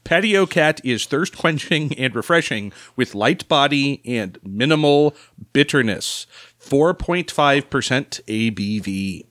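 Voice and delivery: lively, measured product blurb read; ad-copy read. Acted. Podcast host reading the beer description to the table, announcer-like. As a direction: read the can like a beer advert.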